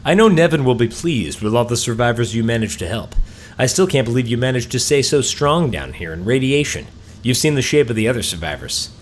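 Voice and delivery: lightly voiced quest giver reading out orders. Gnome rescuer praises and directs the survivor, lightly acted quest-giver voice. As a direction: read it as a game character addressing the player.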